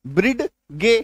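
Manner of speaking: ब्रिडगे split as "brid" and "gay"; naive misreading. Shown as a demonstration. Teacher repeating a learner's mistake, ब्रिडगे with d and hard g both sounded. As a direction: read ब्रिडगे letter by letter, hard g. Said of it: "क्या पढ़ेंगे".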